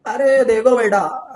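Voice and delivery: slow, drawn-out elder's address; patronising elder scientist. Retold or imitated. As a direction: lightly mimic an old scientist talking down. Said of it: "तो बुजुर्ग scientist लोग थे".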